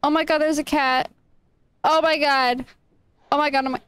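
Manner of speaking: gasping delighted squeals; excited. Real, not acted. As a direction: gush over a cat. Finds a cat.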